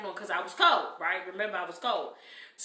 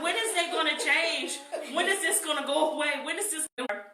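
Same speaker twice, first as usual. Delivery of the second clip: mock whining; 4 semitones higher than usual. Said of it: "She almost cried".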